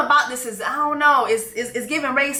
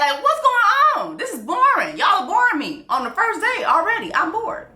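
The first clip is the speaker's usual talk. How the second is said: mock whiny bored; 9 semitones higher than usual. Voicing bored queen, whiny.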